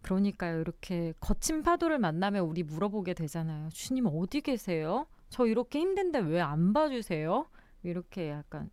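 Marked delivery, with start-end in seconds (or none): 3.7-7.5 lightly acted plea, a bit higher; mild retold complaint. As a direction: imitate someone gently questioning God. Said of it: "따지기도 하고". (살짝 따지듯 하소연하는 말투)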